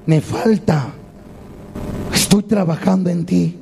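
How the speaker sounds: calm, low, unhurried reassurance; lightly acted patient craftsman; smiling potter. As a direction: answer softly with a smile, pausing between phrases. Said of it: "aquel alfarero con sonrisa le decía".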